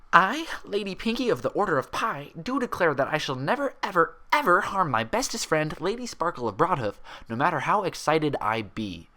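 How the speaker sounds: high, firm, hammed-up solemn vow; mock knightly oath. A narrator's reading. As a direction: swear like a pretend knight. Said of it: "she said firmly".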